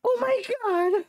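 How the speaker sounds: high pained groan; mouth burning from spicy food. Real, not acted. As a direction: groan through the burn. Hot sauce burning mouth.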